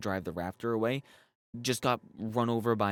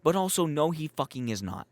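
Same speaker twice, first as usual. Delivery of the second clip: exasperated no; 6 semitones higher, 4 dB louder than usual. Real, not acted. Ranting at implausible scene.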